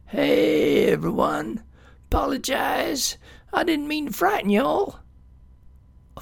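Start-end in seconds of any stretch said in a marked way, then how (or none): 0.1-5.0 high calling-out voice; shouting to get everyone's attention; loud call. A narrator's reading. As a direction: call out across the clearing. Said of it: "a loud voice call out over the cheeps".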